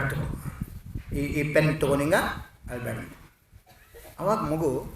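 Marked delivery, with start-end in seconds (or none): 0.0-3.1 soft, low soothing; very loving. A narrator's reading. Principal offers a crying child a pen, lovingly. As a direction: hush a crying child gently. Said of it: "ಭಾಳ ಪ್ರೀತಿಯಿಂದ".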